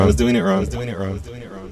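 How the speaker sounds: repeating echo that fades out; digital echo fading. Shown as a demonstration.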